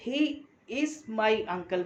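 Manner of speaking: "He is my uncle" word by word, very slow; emphasised whole sentence. Shown as a demonstration. Teacher explains who the uncle is, slow emphasis. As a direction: spell out each word of "He is my uncle" slowly. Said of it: "ये मैंने emphasise करके बोला".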